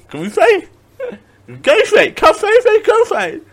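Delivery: very high cartoon Goofy yelps; Goofy impression. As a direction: squeal Goofy's name like the cartoon dog. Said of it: "I talk like Goofy".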